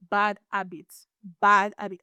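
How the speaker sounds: "bad habit" repeated with emphasis; "bad habit" set apart for emphasis. Real, not acted. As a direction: lean on the words "bad habit". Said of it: "Emphasis on the word".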